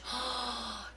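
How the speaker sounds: quiet awed gasp; soft gasp. Real, not acted. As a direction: gasp at the page. Seeing the page.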